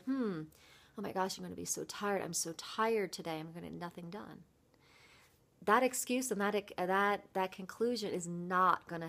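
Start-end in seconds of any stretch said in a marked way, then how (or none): 0.0-4.4 tired grumble. Retold or imitated. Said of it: "in the past I would get up and say".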